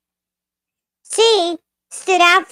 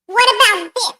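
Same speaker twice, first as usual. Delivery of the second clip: squeaky voice test; 4 semitones higher than usual. Shown as a demonstration. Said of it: "I could be even more annoying".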